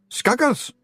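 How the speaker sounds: very high Scots pixie voice; tiny Scottish chieftain; high, slow squeaky Scots voice; Rob Anybody. A narrator's reading.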